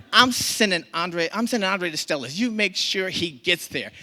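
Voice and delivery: high, loud imitated mama giving orders; acted bossy order. Mama calls moms along the route, bossy orders.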